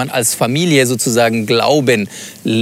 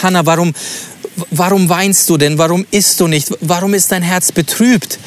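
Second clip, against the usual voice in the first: tender, caring and higher; loving and caring; 5 semitones higher than usual. Shown as a demonstration. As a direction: ask it gently, full of concern. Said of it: "meint er das jetzt ganz lieb und, und ganz fürsorglich".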